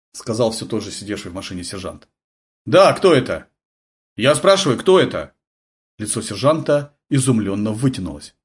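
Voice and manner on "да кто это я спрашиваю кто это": sergeant on the radio. A narrator's reading. Sergeant answers radio call.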